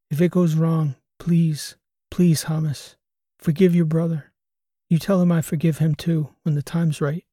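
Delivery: holding back tears, begging; tearful pleading. Acted. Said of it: "suppress the tears ... losing battle".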